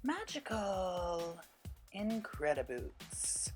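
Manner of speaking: slow, drawn-out sassy praise; sassy drag queen. Pretend. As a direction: savour each word like a diva. Admiring the finished look.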